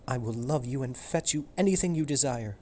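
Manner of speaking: put-on high, dreamy girl dog; sweet young dog voice. Juliet dog voice.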